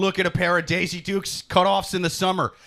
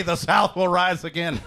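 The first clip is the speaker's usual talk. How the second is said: mock rebel cry. Mock Southern rallying cry.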